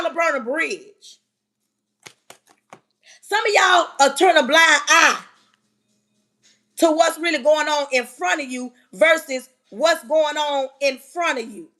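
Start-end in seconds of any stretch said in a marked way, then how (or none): 3.2-8.5 loud preaching. Real, not acted. Speaker calling out her audience, loud and forceful. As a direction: raise the voice on this line.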